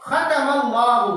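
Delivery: खतमल्लाहु slow, heavy kh; Quran recitation. Shown as a demonstration. Teacher recites the verse to students. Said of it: "एक आयत है".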